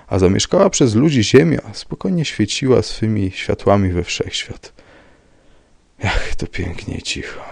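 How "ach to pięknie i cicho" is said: melancholy murmur. A narrator's reading. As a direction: murmur it wistfully to yourself. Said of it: "mruczał melancholijnie Bartoszek".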